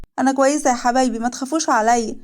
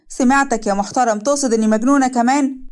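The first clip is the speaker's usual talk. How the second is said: raised voice calling down the stairs; calling from upstairs; 3 semitones higher, 3 dB louder than usual. Acted. Wife calls down from upstairs at her husband, raised voice. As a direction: call down from upstairs, a bit higher and louder. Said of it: "ورنا من فوق".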